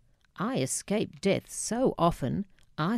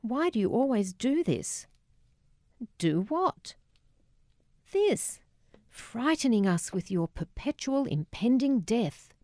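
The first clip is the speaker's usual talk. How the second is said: mocking cruelty; 5 semitones higher than usual. A narrator's reading. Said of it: "mocking cruelty".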